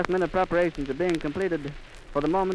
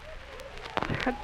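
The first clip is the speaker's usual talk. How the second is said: choked gasp; 6 semitones higher, 9 dB quieter than usual. Real, not acted. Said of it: "I've lost my voice".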